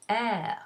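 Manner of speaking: "air" with open eh and audible French R. Shown as a demonstration. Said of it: "not pronounced as E".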